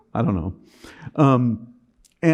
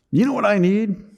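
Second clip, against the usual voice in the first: sarcastic outburst; 9 semitones higher than usual. Retold or imitated. Sarcastic rant to wife in car.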